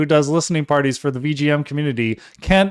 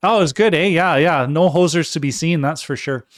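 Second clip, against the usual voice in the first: mock Canadian accent. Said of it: "I'm putting on my best Canadian accent for you".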